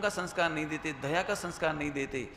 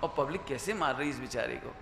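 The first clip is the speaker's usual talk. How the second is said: lower, softer pitying aside; retold pity; 5 semitones lower, 4 dB quieter than usual. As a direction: recall feeling sorry for the victim. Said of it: "हमें दया आ रही थी". (दया भरा धीमा स्वर)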